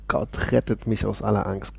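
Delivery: quiet marvelling take on rettet, gently stressed; a soft echo of the verse; soft reflective repeat. Acted. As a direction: repeat the psalm line softly, to yourself.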